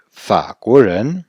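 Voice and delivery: Faguozhen drawn out very slowly, every syllable separate; Faguozhen, slow and deliberate; slow model pronunciation. Shown as a demonstration. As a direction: spell out Faguozhen by ear for beginners. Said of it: "Français".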